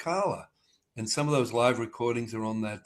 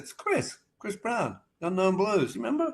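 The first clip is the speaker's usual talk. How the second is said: lightly voiced Aussie; 8 semitones higher than usual. Voicing Chris Brown on phone.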